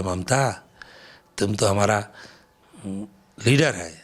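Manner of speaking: a hushed, lightly voiced film star; Sunil Dutt. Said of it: "মমতাকে বললো".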